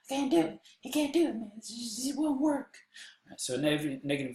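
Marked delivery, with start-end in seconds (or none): 0.1-2.8 put-on a high, loud burst of Texan accent; joking Texan accent, much higher and louder. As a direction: slip into a Texan accent, pitched way up. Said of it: "there's the Texan accent that came out".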